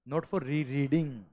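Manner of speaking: ordinary talk, nothing marked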